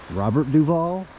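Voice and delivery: high, rising query; questioning echo. Retold or imitated. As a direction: echo the name back as a puzzled question. Retold puzzled echo of the name.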